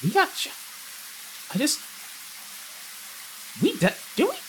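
high, insistent disbelief; incredulous. Real, not acted. Player insisting to the other they got shot, high and incredulous. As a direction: keep insisting, pitch climbing.

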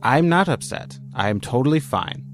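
defensive denial. Acted. To his partner who says he seems upset, a defensive denial. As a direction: deny being upset a bit too hard. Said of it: "You seem upset".

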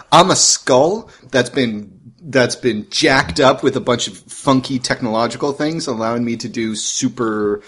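hammed-up robot, slow at first; lightly voiced silly robot voice. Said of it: "I'm gonna do a silly robot voice".

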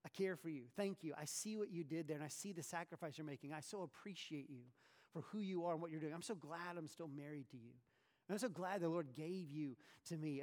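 tender. Shown as a demonstration. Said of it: "to say".

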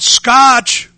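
loud, high-pitched call for the dog; crying out. Retold or imitated. Woman stuck in a cow pen, crying out to her dog. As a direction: holler the name as if for rescue. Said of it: "And then she cried out".

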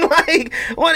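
laughing, high and incredulous. Real, not acted. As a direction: pitch shoots up in disbelief. Incredulous at the video.

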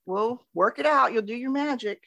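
mock sunny nonchalance; Trevor. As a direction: imitate a carefree client, high and light. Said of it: "all butterflies and rainbows, it seems, with Trevor".

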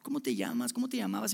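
lightly hammed-up puzzlement; mock puzzled God. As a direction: play a forgetful host who can't place a name. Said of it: "no es como que si Dios estuviera diciendo".

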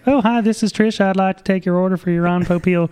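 high, chirpy mock sales voice; mock salesman Ron. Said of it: "And he'd be like".

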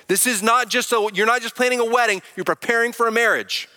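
angry-sounding. Real, not acted. Pastor urging husbands-to-be to get involved, angry-sounding. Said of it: "I sound angry".

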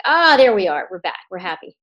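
happy relief. Retold or imitated. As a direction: burst out with delighted relief, then settle. Voices the smiling baby's reaction.

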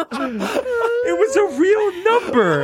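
high, slow, wheezing through laughter; can barely speak for laughing; laughing hard. Real, not acted. Cracking up at real number.

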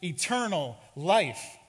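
loud, emphatic cries; acted scream, punched hard then stretched; mock scream. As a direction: cry each word out like a man fleeing. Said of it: "and he screams".

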